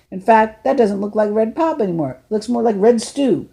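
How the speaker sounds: a hint of a genial older man; an older driver talking to a runaway boy, lightly voiced. Lefty's joking warning.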